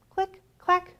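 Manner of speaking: high, bouncy click clack; typewriter clicks. A narrator's reading. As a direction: tap it out like keys. Typewriter sound refrain.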